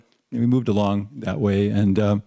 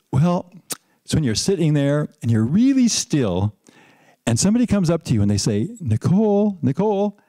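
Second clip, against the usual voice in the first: put-on little girl voice; 5 semitones higher than usual. Four-year-old explains samadhi.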